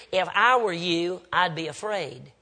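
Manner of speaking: low, slow, understated menace; quiet warning. Retold or imitated. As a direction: retell her warning softly and slowly. Woman's veiled warning, retold.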